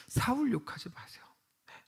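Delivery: unvoiced whisper; soft hushed repeat to the congregation. Real, not acted. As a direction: whisper it as a gentle reminder. Repeats warning, whispered again.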